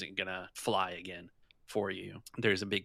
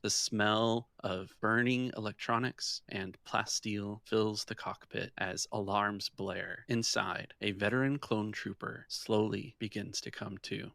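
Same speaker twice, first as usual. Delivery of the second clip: scene-setting narration. A narrator's reading. Game master opens the session over the crash site, in a measured narration voice. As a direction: paint the crash site for the players.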